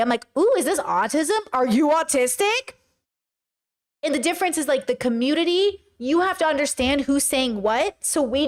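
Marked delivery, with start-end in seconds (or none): 0.4-2.7 delighted "ooh", pitch swooping up on the question; not in a bad way. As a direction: ask it with keen, friendly curiosity. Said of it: "I'm not saying it that way".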